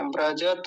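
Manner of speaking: व्रजत as "vra-ja-ta"; careful three-syllable व्रजत; all syllables full. Shown as a demonstration. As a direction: finish व्रजत on an audible a. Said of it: "ऐसा बोलना है".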